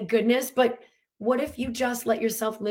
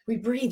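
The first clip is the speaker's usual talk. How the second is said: breath demo. Shown as a demonstration. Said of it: "You gotta bring breath".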